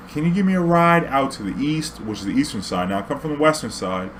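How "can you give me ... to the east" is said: put-on higher, loose drunk plea; drunk guy voice. Drunk passenger begging the driver for a ride, high and loose. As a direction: ask like a wasted passenger.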